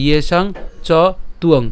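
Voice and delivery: ইয়েসাং / চ / তুয়ং, t linked to uang; natural word division. Shown as a demonstration. Teacher repeats the proper reading, তুয়ং undivided. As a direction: leave চ open and say তুয়ং whole. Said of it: "অবশ্যই একসাথে উচ্চারণ করবেন".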